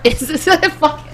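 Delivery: giggling through the words; real laughter cracking the read; laughing. Real, not acted. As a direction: break up mid-read. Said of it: "It's okay".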